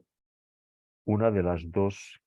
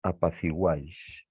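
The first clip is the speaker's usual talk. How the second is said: slow example word; slower than usual. Shown as a demonstration. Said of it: "otro ejemplo".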